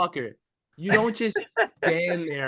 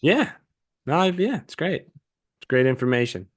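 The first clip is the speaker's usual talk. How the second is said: unconvinced, humoring agreement; skeptical. Real, not acted. Listener humoring his friend's alien story, skeptical. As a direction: agree while plainly doubting it. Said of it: "You sound skeptic of this".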